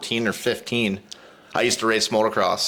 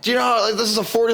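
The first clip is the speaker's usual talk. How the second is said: higher, retold scolding; mock yelling; 10 semitones higher, much faster than usual. Angry man to speeding teen, mock yelling. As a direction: scold in a pitched-up voice, no real force. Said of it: "He starts yelling".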